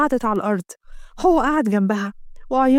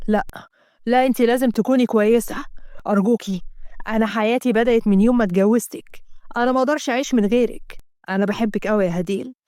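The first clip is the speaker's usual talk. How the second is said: lightly voiced devoted husband; 2 semitones lower than usual. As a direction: reassure his sick wife. Asem comforting his wife.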